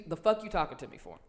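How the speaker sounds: imitated offhand brush-off at an everyday volume; dismissive shrug. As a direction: shrug the question off. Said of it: "First, it came with a shrug".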